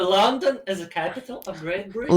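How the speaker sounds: textbook recital in Russian school English. Shown as a demonstration. Friend offering the classroom stock phrase, Russian school English. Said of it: "Yes, this, this one".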